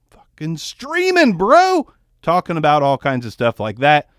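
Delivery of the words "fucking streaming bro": hyped up. Real, not acted. Hyped outburst about streaming.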